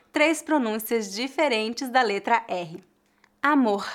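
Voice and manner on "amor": Portuguese: amor com R forte; strong R. Shown as a demonstration. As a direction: breathe out the final R of Amor. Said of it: "R forte".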